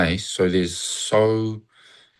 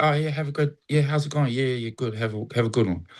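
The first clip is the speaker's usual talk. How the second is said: box-ticking pleasantry; 3 semitones higher, faster than usual. Retold or imitated. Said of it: "a box ticker".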